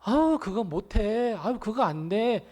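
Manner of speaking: soft, slow grumble; discouraging whine. Retold or imitated. Naysayer discouraging the workers, soft and slow. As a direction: drag them down with reluctance. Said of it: "뭐라고 이야기를 해요".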